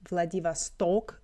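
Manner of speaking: Vladivostok with the stress on the final "stok"; stress on last O. Shown as a demonstration. Language teacher shows viewers the Russian name, stress on last syllable. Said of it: "with the stress on".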